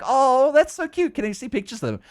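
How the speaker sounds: high-pitched cooing over something cute; imitated gushing. Retells strangers gushing over husband.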